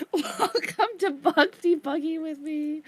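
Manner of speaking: slow, wheezing laugh; mock show host through laughter; laughing mock intro. Real, not acted. Developer jokingly hosting a debug show, laughing.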